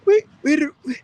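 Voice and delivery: high pleading son voice, begging; imitating the son. A son begging his father for money, high whiny plea. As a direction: whine like a broke son asking for cash.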